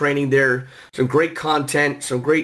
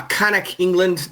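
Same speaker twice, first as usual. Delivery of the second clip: a lightly put-on British accent, a bit higher; horrible British accent; 4 semitones higher, slower than usual. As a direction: try a clumsy English accent on the place name. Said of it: "That's my horrible accent".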